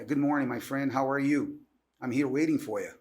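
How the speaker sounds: relaxed American English greeting; American accent. Shown as a demonstration. Showing the host American versus Australian, American accent. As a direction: demonstrate an easy American accent. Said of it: "diferença do sotaque americano pro australiano".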